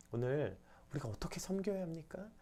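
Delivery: soft unvoiced prayer line; whispered prayer. Real, not acted. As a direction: whisper it to God. (속삭이는 기도)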